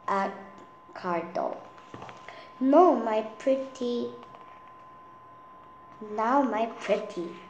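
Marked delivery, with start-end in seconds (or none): 2.6-7.4 purring. Acted. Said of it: "she purred".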